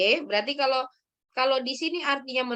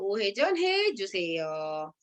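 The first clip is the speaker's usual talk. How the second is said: slow, lower model read-out; slow confirming model; 5 semitones lower, 4 dB quieter, much slower than usual. Shown as a demonstration. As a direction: confirm it slowly for the student. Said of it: "맞아요".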